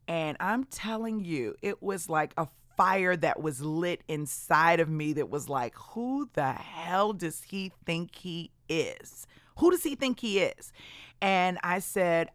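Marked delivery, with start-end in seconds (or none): 5.9-10.7 inner outrage. Retold or imitated. Inner fury at boss.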